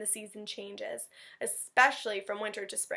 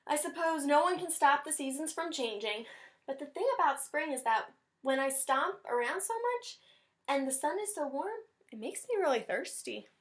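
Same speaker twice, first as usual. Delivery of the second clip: higher, grudging bunny voice; resigned Rabbit; 5 semitones higher than usual. Acted. Teacher voicing reluctant Rabbit for class, higher. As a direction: grumble with a sigh.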